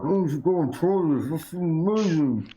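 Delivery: high, fast and eager; excited character voice. Acted. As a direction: gush about the food. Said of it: "He's like".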